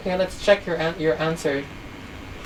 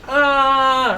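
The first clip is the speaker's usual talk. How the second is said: mock scream; 6 semitones higher than usual. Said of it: "she was screaming".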